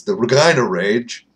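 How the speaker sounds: "Regina" with a long "eye" in the middle; Regina rhyming with vagina. Real, not acted. Vlogger naming the Canadian team, "Regina" said with a long i. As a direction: say "Regina" as ruh-JYE-nuh. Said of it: "that's how you pronounce that city's name".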